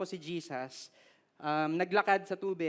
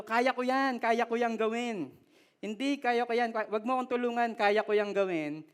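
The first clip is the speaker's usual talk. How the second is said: cocky, higher 'I can do it' voice; mock the proud know-it-all; boastful voice; 3 semitones higher than usual. Preacher mocking the congregation's pride, cocky.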